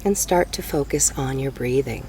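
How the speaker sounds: slow meditation guide with long pauses; guided meditation. Real, not acted. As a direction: ease them into breathing, unhurried.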